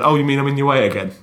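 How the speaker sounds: voicing the dog, high and loud; hurt dog asking if it's in the way. Dog voiced by owner.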